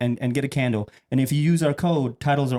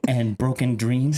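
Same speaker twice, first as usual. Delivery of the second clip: commercial voice; slower than usual. Acted. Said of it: "freestyle commercial real quick".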